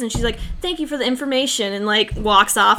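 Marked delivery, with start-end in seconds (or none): 0.6-1.7 fast, mock-polite brush-off; suddenly polite. Friend retelling a character's sudden polite brush-off, quick and mock-sweet. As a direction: switch to a brisk fake-sweet thank you. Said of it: "she completely changes".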